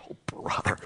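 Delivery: breathless, whispered fed-up aside; whispered groan. Acted. Preacher voicing a doubter, a whispered fed-up sigh. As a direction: breathe it out under your breath.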